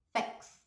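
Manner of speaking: "Thanks" said as fenks, th sounding like F. Shown as a demonstration. Teacher drills Thanks with an f-like th. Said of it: "Então, repete".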